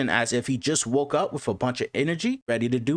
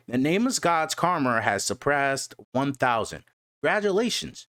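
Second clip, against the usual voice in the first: animated recap narrator, livelier than casual chat; story recap narration. A narrator's reading. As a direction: narrate the chapter with lifted, steady energy. Recaps comic chapter as narrator.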